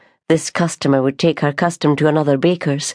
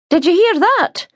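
indignant sister; 3 dB louder than usual. Acted. Sister indignant after customer.

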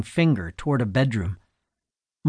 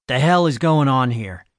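booming demand; 3 dB louder than usual. Acted. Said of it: "he demanded in a booming voice".

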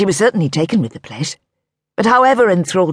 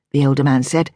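ordinary delivery, nothing marked

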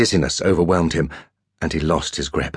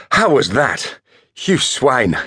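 triumphant shout; 7 semitones higher, slower than usual. A narrator's reading. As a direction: crow over the win. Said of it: "James's triumphant outburst after winning".

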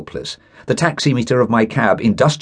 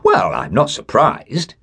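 a polite lie; 4 semitones higher, slower than usual. Acted. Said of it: "adding a shocking lie".

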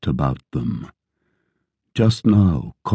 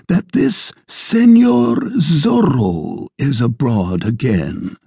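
landlord; 7 semitones higher, slower than usual. Acted. Landlord quote, slow.

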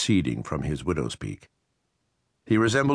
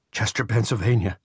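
resentful contractor, pitched up and pressing; bitter intruder Riley; 5 semitones higher than usual. A narrator's reading. Riley's held voice.

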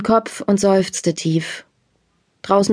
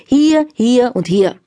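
counting out notes; 4 semitones higher, 3 dB louder, slower than usual. Acted. Father counting out banknotes.

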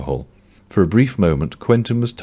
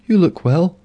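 higher voiced bank clerk, subdued; Mavis voice; 12 semitones higher than usual. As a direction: play the tired Mavis, much higher.

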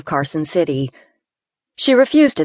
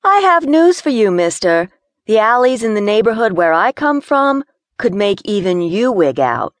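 a hint of an edgy city girl, slightly higher; complaining in a tight space; lightly voiced nervous Gina; 4 semitones higher, 4 dB louder than usual.

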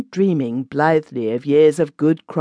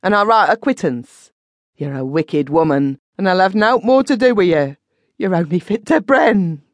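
frightened outburst; 5 semitones higher, 3 dB louder than usual. A narrator's reading. Frightened man denouncing the witch.

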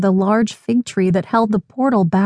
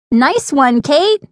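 higher, lifting cheer for a friend; delighted cry; 6 semitones higher, 3 dB louder, slower than usual. A narrator's reading. Lainey cheers her friend's soccer trick, delighted cry. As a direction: cry out praise, pitch leaping at the end. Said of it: "cried her other friend".

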